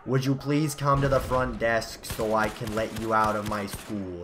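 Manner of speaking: slow imitation of a school receptionist's New Jersey accent; a light mock New Jersey front-desk voice. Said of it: "That's essentially what she sounds like".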